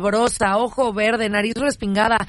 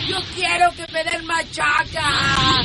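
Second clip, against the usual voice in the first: high slow yelled demand; 5 semitones higher, slower than usual. Acted. Wife yells demand.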